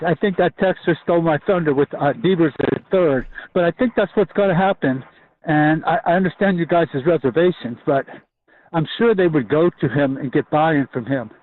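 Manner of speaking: breathless while running; talking between gasps for air; out of breath. Real, not acted. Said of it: "excuse me, I'm out of breath, I'm running".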